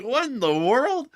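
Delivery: high, slow, loud What in the world?; a hammed-up stunned squeal; cartoonish shock at a word; mock disbelief. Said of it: "I was like".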